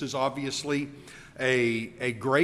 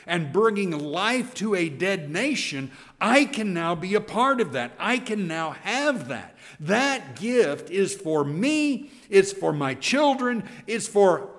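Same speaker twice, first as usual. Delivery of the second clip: higher and louder, thrilled discovery; acting out an overjoyed listener; excited listener; 5 semitones higher, 4 dB louder than usual. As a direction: voice a Jew hearing the promise with delight. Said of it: "for a listening Jew".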